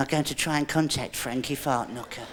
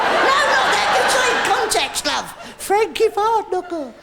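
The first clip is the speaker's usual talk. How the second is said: excited; 14 semitones higher, 4 dB louder than usual. Real, not acted. Correcting assistant, excited.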